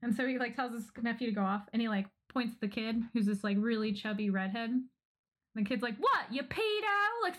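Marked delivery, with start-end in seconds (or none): 6.0-7.2 acted screeching, shrill, very high-pitched screaming outburst. Retelling a show scene where a kid starts screaming: imitating a kid screaming. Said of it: "starts screaming at him".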